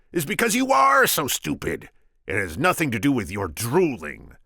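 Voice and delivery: shrieking high, loud insult; high contemptuous squeal; mocking Sicilian.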